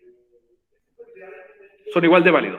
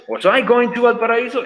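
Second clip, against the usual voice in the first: higher, brighter full model question; lively model question; 6 semitones higher than usual. Shown as a demonstration. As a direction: read the finished question out for the class. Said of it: "¿Estaba yo yendo a Valparaíso?". (pregunta completa más aguda y animada)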